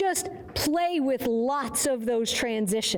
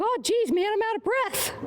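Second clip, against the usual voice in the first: higher, puffing tired horse voice; voicing the horse; 7 semitones higher than usual. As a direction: speak for the worn-out horse, pitched up. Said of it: "He's like".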